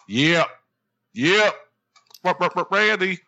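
high, loud hype-man yelps; mock hype shout. Co-host capping an ad read with mock hype, high excited yelps. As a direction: punch it up into high, stuttered hype calls.

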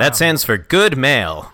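put-on old-timey announcer. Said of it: "I like this new character of yours".

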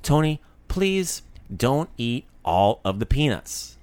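slow, measured appeal to a friend; patient, drawn-out request; mock pleading. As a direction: stretch it out in a lightly acted plea.

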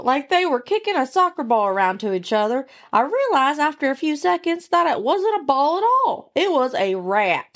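twangy Southern yarn slowing at the reveal; Southern redneck accent. Acted. Host reveals the story's twist, Southern accent. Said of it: "I like the accent".

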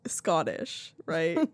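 a light mock Scottish accent on Scottish; teasing a friend in mock Scottish accent. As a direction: roll it out in playful Scottish. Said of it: "Your Scottish accent is so good".

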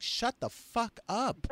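laughing through it, high and slow; slow, high, laughing exasperation. Retold or imitated. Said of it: "and I'm like".

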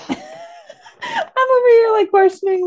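high voice squeezed by laughter; helpless real laughter under the words; laughing while talking. Real, not acted. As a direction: struggle to speak through giggles. Cracking up over plot versus plaque.

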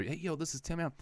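same cheesy hype-intro voice pretending to be a star; fake Tim Allen. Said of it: "That's the same voice doing all of those voices".

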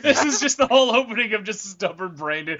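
chuckling through the words; laughing. Real, not acted. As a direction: laugh while you tease. Laughing while teasing.

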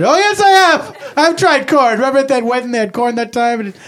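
starving Irish peasant. Acted. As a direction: ham up the dying famine victim begging for potatoes. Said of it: "it was like a little play".

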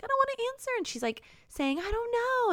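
high, whiny scared refusal; mock whimper. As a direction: whimper like the terrified girl. Scared victim refuses answer.

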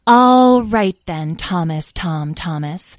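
brisk authority with a drawn-out opening; lightly voiced bossy fairy. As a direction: take charge of a captive, mildly imperious. Fairy takes charge of Tom.

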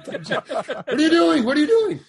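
high, loud repeated outburst; very excited. Retold or imitated. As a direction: shout it way up high. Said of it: "he's just very excited".

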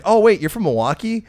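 high, loud, suddenly impressed; sudden surprise. Retold or imitated. Bartender learning he's from Milwaukee, high and loud surprise. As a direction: switch to delighted surprise mid-thought. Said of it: "immediately his tone changes".

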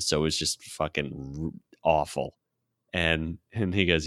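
normal talking voice

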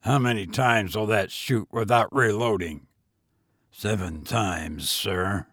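low, quiet master's voice; cool gentleman. Acted. Voicing Allen's orders.

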